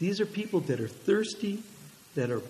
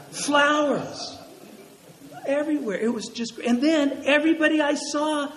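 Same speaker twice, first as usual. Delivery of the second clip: raised, wonder-filled telling; awed excitement; 5 semitones higher than usual. Real, not acted. Pastor to congregation, recalling the store opening with awe. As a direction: marvel at the memory, voice lifted.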